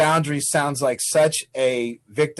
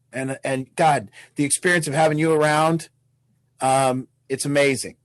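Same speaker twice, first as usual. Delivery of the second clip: sincere truth. Retold or imitated. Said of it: "My truth would be something like".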